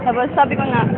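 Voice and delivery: hushed, tearful voice after crying. Real, not acted. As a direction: speak softly, still teary. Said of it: "Sorry po, naiyak ako".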